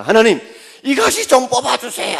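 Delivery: loud, high plea to God; pleading prayer. Retold or imitated. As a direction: cry out to God for help. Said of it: "하고 우리 기도합니다".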